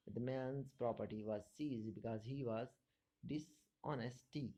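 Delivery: very slow, drawn-out reading; slow dictation. Shown as a demonstration. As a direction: read it out as a dictation. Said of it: "teacher dictates example sentence slowly".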